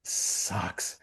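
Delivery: resigned. Retold or imitated. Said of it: "which is".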